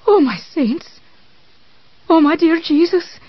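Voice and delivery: high, terrified cry; screaming in terror. Acted. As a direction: cry out in horror. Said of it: "bring a scream tearing from her".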